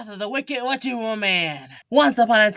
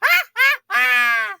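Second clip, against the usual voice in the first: high ha ha ha; mock evil laugh; 3 dB louder, slower than usual. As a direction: gloat in laughs. Teacher gloating.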